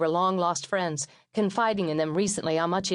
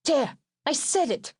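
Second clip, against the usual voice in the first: mother's voice; 8 semitones higher, slower than usual. Retold or imitated. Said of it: "my mother shouted".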